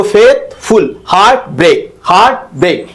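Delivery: "फेथफुल" split into two equally weighted beats; stress on both syllables. Shown as a demonstration. Teacher showing a spondee, equal double stress. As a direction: hit हार्ट and ब्रेक equally in "हार्ट ब्रेक". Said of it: "ये दोनों पे जोर दिया जाता है".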